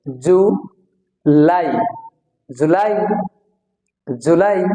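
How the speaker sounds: জুলাই with lai stretched and rising; drawn-out "lai". Shown as a demonstration. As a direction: lengthen the second half of জুলাই, lifting it. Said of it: "একটু টেনে বলতে হবে".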